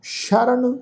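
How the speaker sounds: ਸ਼ਰਨ said with a clear sh sound, not s; ਸ਼ਰਨ slowly, sh at the start; careful pronunciation. Shown as a demonstration. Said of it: "ਸੱਸੇ ਪੈਰ ਬਿੰਦੀ ਲਗਾ ਕੇ ਪਾਠ ਉਚਾਰਨ ਕਰਾਂਗੇ".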